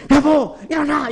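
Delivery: 높고 센 소리로 깨우기; 배우자를 다그쳐 깨우는 시범; 사랑 없이 다그치듯. Shown as a demonstration. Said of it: "이러면 내가 거기서 사랑을 못 느끼죠". (높게 다그치며 깨우는 소리)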